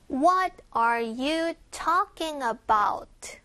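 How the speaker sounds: slow model question, "What" and "talking" stressed; drawn-out question with weight on "What" and "talking". Shown as a demonstration. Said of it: "강세".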